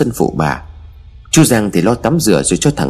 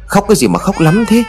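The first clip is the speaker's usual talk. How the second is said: much higher, exasperated demand; loud scolding; 11 semitones higher than usual. A narrator's reading. Grandmother rebuking her crying grandson, high-pitched scolding. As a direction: scold high and insistent, little louder than narration. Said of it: "Bà quát to".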